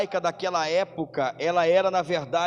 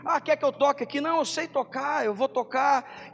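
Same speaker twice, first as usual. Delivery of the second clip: higher, breezy offhand mock voice; casual volunteer; 6 semitones higher than usual. Churchgoer offering to help out of boredom, higher and offhand. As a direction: lightly play a casual church helper. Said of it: "pelo simples fato".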